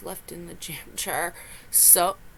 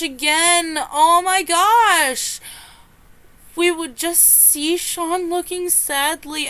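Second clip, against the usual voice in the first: cracking up through the words; helpless crying laughter, real; laughing to tears; 5 semitones higher, 5 dB louder, slower than usual. Real, not acted. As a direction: choke out the words between tearful laughter. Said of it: "I am laughing so hard that I am crying".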